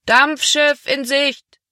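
long-drawn, high call from the shore; man hailing across the water. A narrator's reading. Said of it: "erklang die Stimme eines Mannes".

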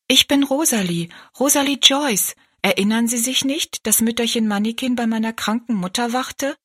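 put-on high, earnest child's voice; high little girl voice. Rosalie tells the giant who she is, high girl's voice. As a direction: plead politely like a small girl.

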